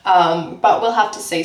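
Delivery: chewing gum while talking; mouth full. Real, not acted. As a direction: talk around a piece of gum. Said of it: "Sorry, I've got gum in my mouth".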